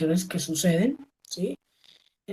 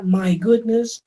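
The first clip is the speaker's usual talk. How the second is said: mock surprise; 3 semitones higher, much slower than usual. Shown as a demonstration. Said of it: "Oh dear".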